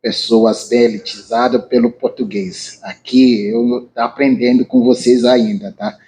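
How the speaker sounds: Portuguese with a Nigerian accent; english accent portuguese. Real, not acted. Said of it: "Desculpa meu português".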